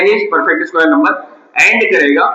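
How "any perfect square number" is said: slow, word by word, as if writing it on the board; slow dictation. Shown as a demonstration. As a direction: spell it out slowly for students to copy. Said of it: "या ऐसे लिख देते हैं".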